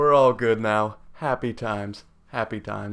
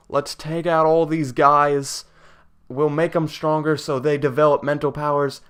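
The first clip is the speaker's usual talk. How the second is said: alien voice. Pretend. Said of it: "the best I could do for an alien voice".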